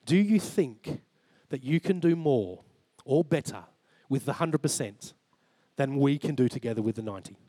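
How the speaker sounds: measured, pausing between phrases; God's measured question. Retold or imitated. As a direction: put the question calmly, phrase by phrase. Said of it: "he just said, "Matt".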